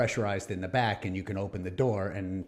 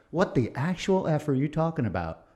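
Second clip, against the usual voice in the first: higher, louder mock outburst; retold outrage; 7 semitones higher, 5 dB louder than usual. Telling the Navy off over his daughter, mock angry. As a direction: let the old anger flare in the retelling. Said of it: "I'm like".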